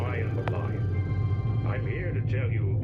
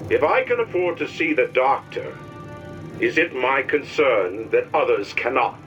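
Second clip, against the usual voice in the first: rising outrage; 7 semitones lower, 3 dB quieter than usual. Acted. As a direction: build into an angry rant. Propaganda cartoon voices build up.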